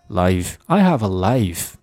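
"life" slow with a complete ah-to-ee glide; "I have a life" with a full ai in LIFE; full, rounded vowel. Shown as a demonstration. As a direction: stretch the diphthong in "life". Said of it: "这样才饱满".

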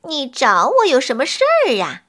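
quick, impatient and brisk. Acted. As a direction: brush her off impatiently. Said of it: "不耐烦地说".

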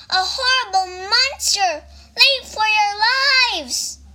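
high storybook alarm call; panicked warning. A narrator's reading. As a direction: warn everyone in mock panic. Toad raises the alarm.

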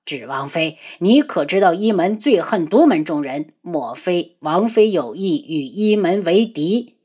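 low, cold emperor voice. Acted. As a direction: speak coldly and low. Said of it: "冷声道".

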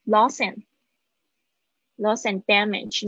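"Loss and damage" linked with a single d; slow, linked "Loss and damage"; linked pronunciation. Shown as a demonstration. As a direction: run "and damage" together, one d only. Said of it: "只要讲一个的就好了".

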